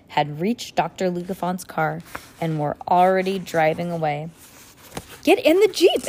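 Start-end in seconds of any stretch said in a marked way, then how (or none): 5.2-6.1 loud, high urgent command; exclaimed. A narrator's reading. Violet starting the car chase, urgent shout. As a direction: shout the order high to get everyone moving. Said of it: "exclaimed Violet".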